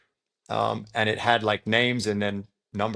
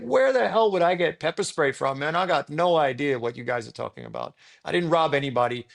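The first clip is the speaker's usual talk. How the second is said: angry protest; 5 semitones higher than usual. Retold or imitated. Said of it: "I started to get really angry".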